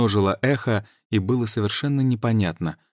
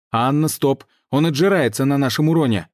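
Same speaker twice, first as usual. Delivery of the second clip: loud high alarmed call; urgent shout; 6 semitones higher, 5 dB louder than usual. Acted. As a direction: warn her urgently. Urgent call during fight.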